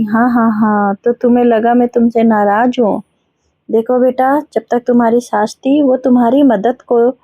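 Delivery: a touch of fatherly tenderness, slowing on the key words; lovingly. Acted. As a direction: gently reassure the daughter-in-law, understated. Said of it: "प्यार से बोले".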